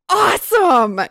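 very high, loud mock shriek; hammed-up piercing cheer. A narrator's reading. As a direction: shriek it with theatrical glee. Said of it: "shrieked Stephanie".

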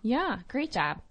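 put-on slow, drawn-out Minnesota accent. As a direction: hold the long vowels, Minnesota style. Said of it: "that was a Minnesota accent".

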